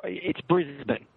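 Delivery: Brisbane said slowly as BRIZ-bin, second syllable reduced; local pronunciation. Shown as a demonstration. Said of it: "I should clear up this, uh, pronunciation issue".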